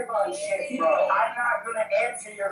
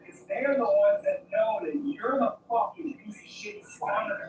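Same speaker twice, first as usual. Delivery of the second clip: seething whisper. Real, not acted. Arrested man seething at officer.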